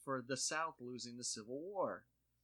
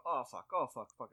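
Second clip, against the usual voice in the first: imitating toddler cursing; 3 dB louder than usual. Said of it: "she'll just go".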